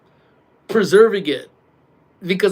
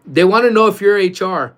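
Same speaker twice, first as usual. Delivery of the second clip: louder, higher projected question; calling out; 5 semitones higher, 7 dB louder than usual. Real, not acted. Streamer asking coworker about HR for viewers, calling out. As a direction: send the question to someone out of the room.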